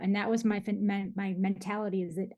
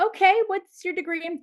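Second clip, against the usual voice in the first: acted parental questioning; 10 semitones higher, 6 dB louder than usual. Acting out parents' startled response.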